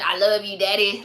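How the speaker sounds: lightly put-on child voice; little kid from Shrek. Host imagining the Shrek kid with daddy, child voice. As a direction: imitate a little boy's deadpan affection. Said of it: "I just imagine".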